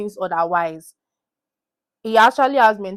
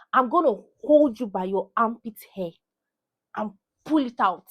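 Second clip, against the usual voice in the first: mock threat.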